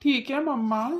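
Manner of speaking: put-on a small kid asking papa for ice cream; little boy. Child answers mother. (छोटे बच्चे की आवाज़)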